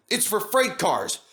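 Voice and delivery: a hint of a stern signalman; impatient signalman. A narrator's reading. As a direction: brush the driver off. Signalman continues.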